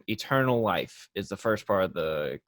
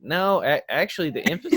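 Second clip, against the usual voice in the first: retold eager correction; 8 semitones higher, 5 dB louder than usual. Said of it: "I'm like".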